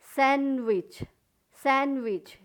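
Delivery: सैंडविच with no D, san-wich; silent D. Shown as a demonstration. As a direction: drop the D in सैंडविच. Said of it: "डी silent है".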